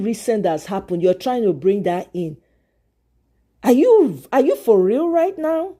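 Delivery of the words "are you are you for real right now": real disbelief, pitched higher; incredulous. Real, not acted. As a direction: challenge them in disbelief. Incredulous at a commenter.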